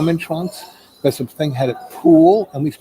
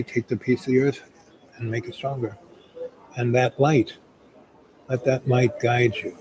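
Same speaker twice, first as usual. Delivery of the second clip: a gentle guided send-off; meditation. Acted. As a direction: ease them into calm. Closing meditation words.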